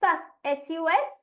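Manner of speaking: सस said alone then spelt एस यू एस, slowly; syllable by syllable. Shown as a demonstration. Teacher chunking the word for children, slow. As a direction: break सस्पेंड into its first syllable. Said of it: "सस्पेंड".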